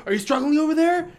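playful imitation of a boastful rival; Gaston. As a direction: tease like a showy braggart. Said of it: "now he's gotta be the braggart Gaston".

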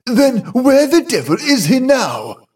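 put-on a vexed old man wanting answers; exasperated father. A narrator's reading. Stackpole demands, exasperated.

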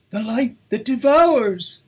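high, loud, slow shriek; terrified cry. A narrator's reading. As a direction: cry it out in terror. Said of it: "she cried".

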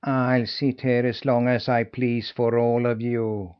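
mildly defiant fox voice. A narrator's reading. Fox refuses to leave the watchdog's kennel, defiant. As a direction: stand your ground against the threat. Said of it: "defied the fox".

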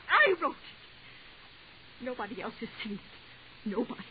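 slow, broken, fading to near silence; breaking down. Acted. Woman pleading with the clerk, voice breaking. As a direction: let the words drain away in despair.

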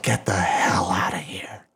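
retold angry brush-off. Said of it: "He was so mad".

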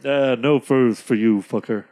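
low, deadpan refusal; blunt chief, lightly voiced; Red Owl. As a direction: chief turning the trader down, dropping at the end. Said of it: "Red Owl says".

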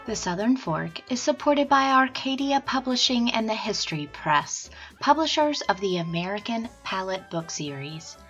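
upbeat sponsor read. Acted. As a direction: read it like a podcast ad. Sponsor read over music.

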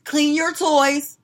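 high, sing-song sweet scolding; babying mom voice. Retold or imitated. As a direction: coo at the little boy like a doting mom. Mom babying her son.

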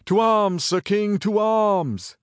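breathless urgent shouted alarm; urgent panting report. Acted. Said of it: "rode a breathless messenger".

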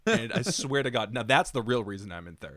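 loud, animated storytelling; loud, laughing excitement; excited retelling. Real, not acted. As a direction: rush through the scary memory with energy.

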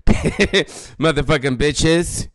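drawn-out laughing insult. Real, not acted. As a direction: laugh through it, slowly. Ranting about rival comedians.

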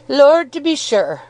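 high, loud and drawn-out exclamation; laughing cry. A narrator's reading. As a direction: cry it out in amused delight. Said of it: "cried Traddles, laughing".

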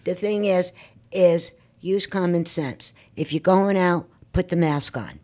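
a hint of a nagging aunt; Auntie Rose voice. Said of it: "I'm gonna sound like my auntie".

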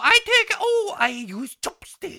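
high, loud exaggerated Asian accent impression; over-the-top mock Asian accent; bad mock Asian accent. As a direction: ham up a stereotyped Asian accent, high and slow. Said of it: "like a bad Asian accent".

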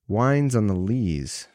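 slow, relishing wines on the lees; drawn out as if enjoying the sound; savoring the words. Shown as a demonstration. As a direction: roll "Wines on the lees" out slowly, tasting each word. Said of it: "it sounds nice".

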